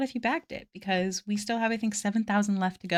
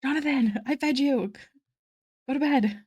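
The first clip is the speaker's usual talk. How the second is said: higher-pitched telling-off of the cat; scolding a pet; 5 semitones higher than usual. Real, not acted. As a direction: send the noisy cat off to bed.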